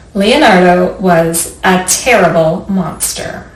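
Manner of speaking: slow storybook reading with long pauses; reading to children. Acted. Librarian reading a picture book to children. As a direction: read it gently to little listeners.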